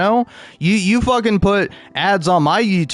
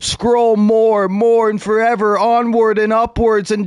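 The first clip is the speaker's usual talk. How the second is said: higher, whiny begging app voice building to a shout; pleading TikTok voice; 6 semitones higher than usual. Retold or imitated. Streamer imitating TikTok begging him to scroll to the ads, higher whiny plea. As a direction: beg the user to keep scrolling. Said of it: "And it'll be like".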